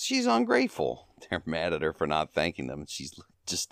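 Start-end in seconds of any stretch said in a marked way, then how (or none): 0.0-1.1 very high falsetto stooge impression; imitating an indignant stooge, pitched way up; Curly. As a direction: squeal it in a comic falsetto. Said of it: "Curly says".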